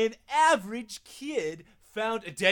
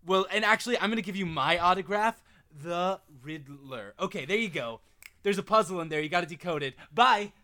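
Riddler voice; 5 dB louder than usual. Acted. Riddler character signing off.

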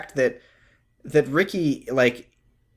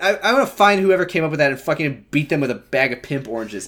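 exasperated rant. Real, not acted. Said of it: "I'm fucking sick of this dumbass trope".

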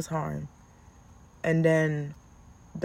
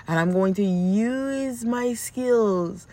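put-on scheming child. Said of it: "challenge your little brain to saying".

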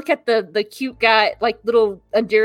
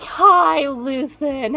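high, loud hello, hammed up; put-on sociable trill; mock gushing greeting; 4 semitones higher, 4 dB louder, much slower than usual. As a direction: greet like an overdone society hostess.

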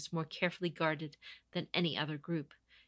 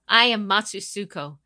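proud announcement; 10 dB louder than usual. Acted. Champion announcing herself to the captives, loudly. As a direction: declare it to the whole courtyard. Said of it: "she announced".

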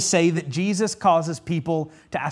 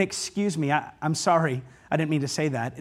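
apologetic excuse me; 5 semitones lower, 6 dB quieter than usual. Retold or imitated. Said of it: "No, it was m".

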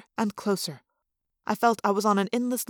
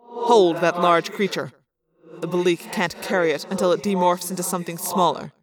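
commanding orders; 2 semitones lower, 3 dB louder than usual. Acted. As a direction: order the crew around harshly. Visser Three giving orders.

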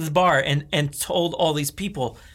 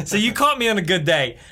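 put-on Australian accent; 4 semitones higher than usual. Telling of practising alone in the car, building mock Australian accent. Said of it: "today in Australian accent".

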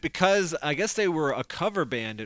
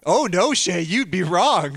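laughing; 2 semitones higher, 5 dB louder than usual. Real, not acted. Laughing while teasing Shay.

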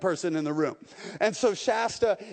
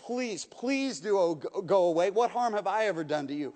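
mild mock panic, a touch higher; lightly acted terrified pleading; near scream; 3 semitones higher than usual. The lost boy begs the unseen voice in the dark, lightly acted panic. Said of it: "almost in a scream".

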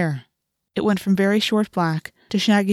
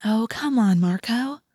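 put-on higher, coaxing girl's voice; gentle chiding; 4 semitones higher, slower than usual. A narrator's reading. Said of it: "Cassie chided gently".

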